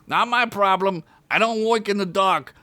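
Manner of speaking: high gruff orc; dismissive orc voice; orc brush-off. Acted. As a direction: orc refusing to work.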